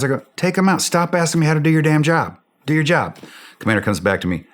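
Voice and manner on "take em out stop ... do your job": higher, exasperated barked command; a mock yell of frustration at the radio; retold angry order. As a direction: snap at him to do his job.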